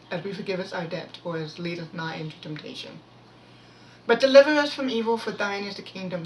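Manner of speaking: murmured, familiar prayer with brief lifts; prayer recitation. Real, not acted.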